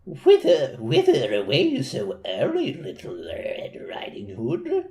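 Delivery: a lightly voiced wolf, slow and drawn out; a hint of a sly wolf asking sweetly. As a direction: play the wolf, lightly, slowing down. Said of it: "I'll do the voice of the wolf".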